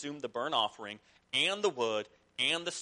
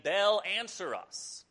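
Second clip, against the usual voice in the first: pleading call; 6 semitones higher, 4 dB louder, slower than usual. Retold or imitated. Prophets calling on Baal.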